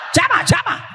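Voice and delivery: high shouted call. Real, not acted. Preacher shouting out to the congregation, loud.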